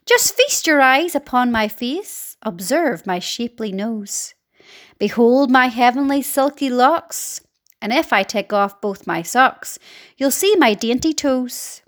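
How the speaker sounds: a hint of a preening aunt reciting; vain Aunt Sponge. Aunt boasting of her beauty, lightly voiced. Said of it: "Aunt Sponge declared".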